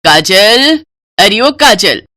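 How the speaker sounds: calling a name across the house. Acted. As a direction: summon her from another room. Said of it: "आवाज देते हुए कहती है".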